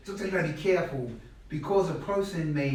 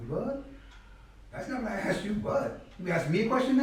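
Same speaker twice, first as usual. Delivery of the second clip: mock flustered; 6 semitones higher than usual. Flustered student retold.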